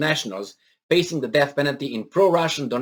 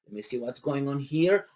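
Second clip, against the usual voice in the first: higher, halting mock Prime Minister; imitating Boris Johnson; 6 semitones higher, 3 dB louder than usual. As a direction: play a distracted leader fumbling for names. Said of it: "I bet he was like".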